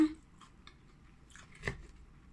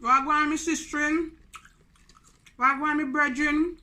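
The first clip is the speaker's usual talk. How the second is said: raised, lilting Jamaican patois; Jamaican greeting; 4 semitones higher than usual. Shown as a demonstration. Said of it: "Jamaican people wanna say".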